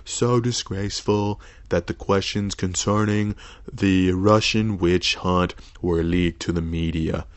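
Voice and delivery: a loose take on Trump's cadence; lightly voiced Trump reading his own tweet; Trump impression. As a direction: read the tweet the way Trump would say it. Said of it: "my fucking Trump impression".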